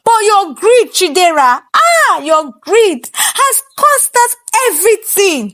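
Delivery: high, crying lament; wailing lament. Acted. King wails at his wife's greed, crying. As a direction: wail out his regret. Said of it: "Nnamdi wailed in the palace".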